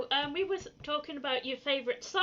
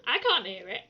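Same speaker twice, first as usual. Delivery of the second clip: real lilting Welsh twang; slightly Welsh accent; 5 semitones lower, faster than usual. Real, not acted. Denying any accent to a friend, in a Welsh lilt. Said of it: "You just did it".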